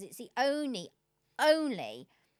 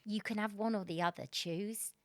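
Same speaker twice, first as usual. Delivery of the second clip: quoting her husband calmly and much softer; calm quote; 6 dB quieter than usual. Retold or imitated. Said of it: "he said really calmly".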